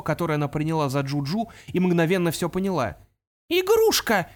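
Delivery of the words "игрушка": high, loud startled cry; shocked exclamation. Acted. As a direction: blurt out the realisation. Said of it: "воскликнула она".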